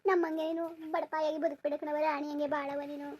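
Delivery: slow, soft motherly plea; slowly and softly, wish her a better life; tender blessing. Acted. Mother tenderly blesses her departing daughter, slow and soft.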